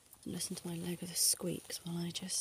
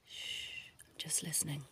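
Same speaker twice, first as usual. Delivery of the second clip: right in your ear; 3 semitones lower, 5 dB quieter than usual. Acted. Doctor hushing patient close up.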